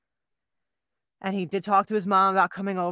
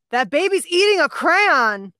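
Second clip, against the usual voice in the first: put-on loud child's cry, higher and slow; super loud; 10 semitones higher, 10 dB louder, slower than usual. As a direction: blurt it out like a kid at the table. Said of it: "Like, super loud".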